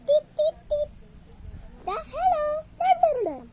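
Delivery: high, loud phone chatter; phone call imitation. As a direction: mimic a ringing phone and a caller. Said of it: "Tapos nagko-call ako".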